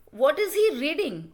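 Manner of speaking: "What is he reading?" with a lifting voice; rising tone. Shown as a demonstration. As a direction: ask "What is he reading?" on a rise. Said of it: "questions can also be asked in a rising tone".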